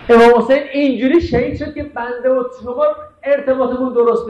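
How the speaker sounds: impassioned preaching. Real, not acted. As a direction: build to a high, lamenting peak. Impassioned lament over Imam Hussein.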